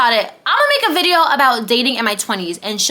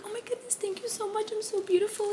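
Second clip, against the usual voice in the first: mock flattered; 9 semitones higher, 13 dB quieter than usual. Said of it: "you're like".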